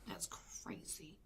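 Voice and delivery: slow, shocked whisper; hushed, slow and stunned. Real, not acted. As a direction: breathe it out in disbelief. Shocked reaction to ritual.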